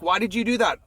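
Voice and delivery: high-pitched mock protest, no real volume; retold yelling. Owners confront the man who kicked their dog, mock yelling. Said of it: "they started yelling at me".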